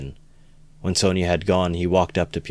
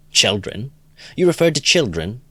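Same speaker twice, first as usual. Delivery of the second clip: higher, louder pounce on the word; eager surprise; 7 semitones higher, 5 dB louder than usual. Acted. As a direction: seize on it like a war horse. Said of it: "started off like a war horse".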